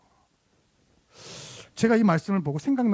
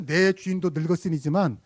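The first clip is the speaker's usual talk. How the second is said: 내 주인도 늙었으니지만 said gently and politely; mildly refined, courteous tone; politely phrased. Shown as a demonstration. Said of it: "점잖게 표현해서". (점잖게 표현한 말투)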